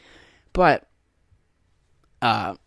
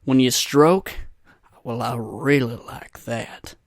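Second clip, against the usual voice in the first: put-on catchphrase; slower than usual. Shown as a demonstration. Comic tries out a line for girlfriend, slow put-on delivery. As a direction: build to a lingering, slow punchline. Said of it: "I could be like".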